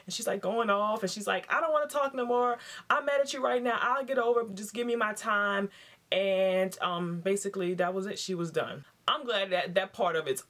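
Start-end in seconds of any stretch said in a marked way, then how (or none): 1.5-5.7 mock mad wife. Wife tells husband she's mad.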